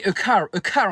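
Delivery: put-on slow show-off English accent; hammed-up bilingual English. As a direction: drawl it in an affected English accent. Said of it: "je suis en bilingue".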